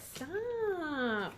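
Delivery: high, falling long stop; drawn stop. Acted. Reader begging the client to stop. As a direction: stretch it out like a plea. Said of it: "message to client".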